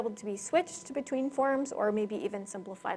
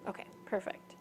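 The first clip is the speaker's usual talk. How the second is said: breathy, voiceless hoarse whisper; raspy whisper; 2 semitones lower, 10 dB quieter than usual. Real, not acted. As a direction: voice gone to a rasp. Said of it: "I'm losing my voice here".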